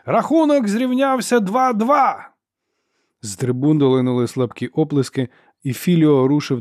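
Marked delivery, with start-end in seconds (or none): 0.0-2.3 high, loud, slow announcer's call; bawling referee. Acted. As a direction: bawl it out to the whole arena. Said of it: "заволав арбітр".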